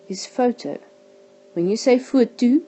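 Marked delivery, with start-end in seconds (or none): 2.0-2.6 "foto" with the final O brought out loud and high; stressed final O. Shown as a demonstration. Teacher demonstrates the Afrikaans word for photo, final O stressed. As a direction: make the O at the back of "foto" clearly heard. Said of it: "you hear that O at the back".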